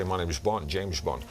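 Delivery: shallow impression without the depth; Sean Connery. Shown as a demonstration. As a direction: do the amateur's lightweight Bond voice. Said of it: "but they don't get the depth".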